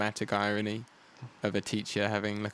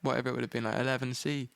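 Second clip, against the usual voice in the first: higher, flustered teacher voice; 4 semitones higher than usual. Retold or imitated. Mimicking the supply teacher realising his mistake, flustered and higher. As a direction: play the confused supply teacher, thrown. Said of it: "he was just like".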